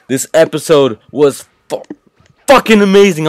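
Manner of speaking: excited outburst. Real, not acted. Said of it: "I'm sorry for my language".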